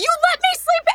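acted-out very high yelling outcry. Retelling a friend's angry reaction to being left asleep: imitating Joanna yelling. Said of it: "then she starts yelling at me".

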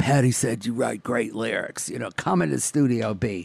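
deepened, low voice of a strange man. Telling a bathroom-stall story, quoting what a man said to him: imitating a guy's voice. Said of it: "That's a good impression".

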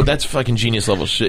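normal talking voice

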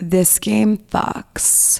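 dirtiest, filthiest-sounding voice. Asked to say the phrase in their dirtiest voice, the speaker tries: dirtiest voice. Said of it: "Say this phrase in your dirtiest voice".

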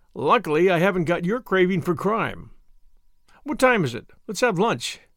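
usual speaking voice

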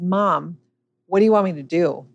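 plain

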